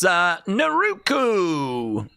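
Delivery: Naruku said slowly as na-RU-ku with a flat a; trying out the name. Shown as a demonstration. Host tests a wrestler's name aloud, slow pronunciation. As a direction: sound out Naruku with an open a, drawn out. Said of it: "That's how you say it".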